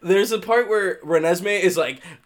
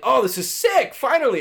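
excited; 6 semitones higher than usual. Retold or imitated. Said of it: "I'm like".

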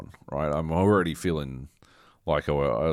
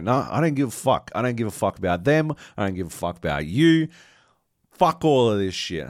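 mock angry Luke; 4 semitones higher, 5 dB louder than usual. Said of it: "And Luke's like".

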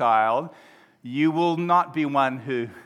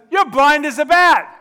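high, loud acted abuse; shouted insult; 12 semitones higher, 11 dB louder than usual. Friend calling his friend names, angry shout. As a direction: hurl it back at full volume. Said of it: "abusing each other, calling each other names".

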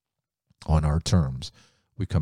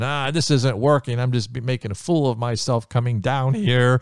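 discouraged; 6 semitones higher, 3 dB louder than usual. Acted. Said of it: "He's probably getting discouraged".

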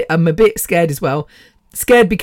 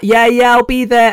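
eager yes; 6 semitones higher, 4 dB louder than usual. Retold or imitated. Eagerly accepting invitation.

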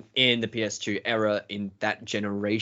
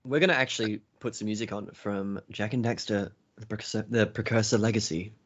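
announcer voice; 4 dB quieter than usual. Shown as a demonstration. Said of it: "This is my classical announcer voice".

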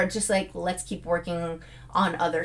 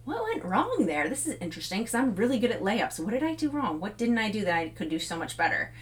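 constructively critical. Acted. Player reviewing a missed layup, interested and critical. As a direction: puzzle it out without blame. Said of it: "being critical in the way of".

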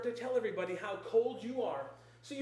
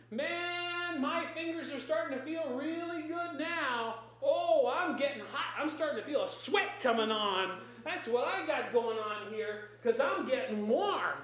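excited; 3 semitones higher than usual. Pretend. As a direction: cheer about getting warm. Voicing someone telling friends they're warm.

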